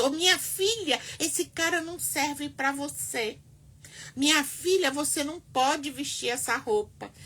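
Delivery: hammed-up overbearing mother; nagging mother. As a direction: lightly play a bossy mother scolding her grown child. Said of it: "Você vai".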